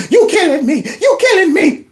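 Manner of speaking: high, laughing mock plea; mock pleading victim. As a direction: whine like they're being dragged, laughing. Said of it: "I don't care if they like".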